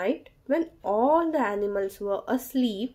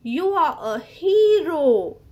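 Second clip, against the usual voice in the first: animals cheering; 4 semitones higher, 6 dB louder than usual. Acted. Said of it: "cried all the animals".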